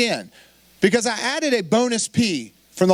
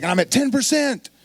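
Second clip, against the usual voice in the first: excited announcement, pitched higher; 5 semitones higher than usual. Retold or imitated. Man excitedly telling his pastor he reached ten percent, excited. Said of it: "He was excited".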